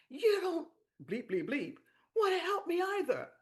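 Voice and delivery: imitating her crying. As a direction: cry out the complaint in a high voice. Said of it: "And she starts crying".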